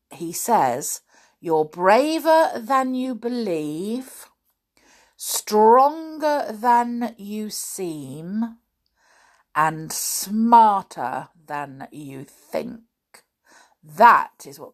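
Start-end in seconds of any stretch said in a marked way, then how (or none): 1.4-12.8 tender and sincere. Acted. Quoting Christopher Robin slowly.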